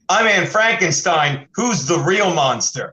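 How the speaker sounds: slow, weighty villain reveal; dramatic reveal. Shown as a demonstration. Comedian pitching a movie reveal, slow and dramatic. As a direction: unmask yourself slowly like a horror villain. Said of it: "You say it just like that".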